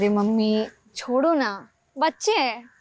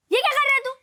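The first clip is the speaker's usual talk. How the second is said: sharply higher, startled question; alarmed challenge; 9 semitones higher, faster than usual. Acted. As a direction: demand to know what they are up to. Catches child in mischief. (चौंककर टोकते हुए)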